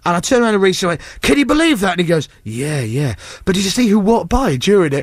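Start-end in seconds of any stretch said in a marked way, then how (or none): 1.2-1.9 high-pitched incredulous appeal; retold outrage. Shaken presenter turning to producer after row, retold incredulity. 2.4-3.2 low, offhand mock agreement; oblivious. Distracted producer answering angry colleague, oblivious imitation. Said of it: "No, completely oblivious".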